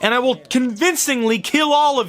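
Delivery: slow, high, theatrical proclamation; mock-grandiose threat. Reviewer threatening to become the killer, mock-grandiose. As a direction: declare your rampage slowly, like a hammed-up villain.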